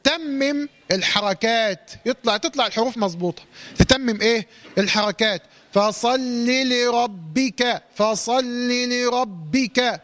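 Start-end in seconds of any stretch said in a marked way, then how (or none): 5.7-10.0 slow, full vowels on فصل لربك; model recitation. Shown as a demonstration. Teacher modelling the verse for the student to copy. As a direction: complete every vowel in فصل لربك, slowly. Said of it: "هكذا".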